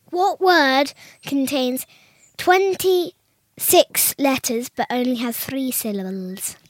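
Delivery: riddle announcement. Acted. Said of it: "today's riddle is".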